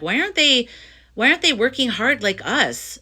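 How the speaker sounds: retold exasperation with a high, swooping pitch; irritated. Speaker recalls resenting the younger generation for not working hard, irritated. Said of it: "at first I was irritated".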